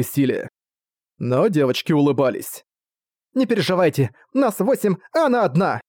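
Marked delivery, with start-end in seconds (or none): 3.3-5.8 put-on higher-pitched girlish pluck; confident and upbeat; cheerful reassurance. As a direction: reassure her brightly, pitched high. Girls cheer on the mother.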